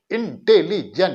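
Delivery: इंटेलिजेंट in separated syllables, evenly spaced. Shown as a demonstration. Teacher repeating the example to count syllables, इंटेलिजेंट split up. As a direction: divide इंटेलिजेंट into its pieces. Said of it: "देखिए तीन syllable हो गया".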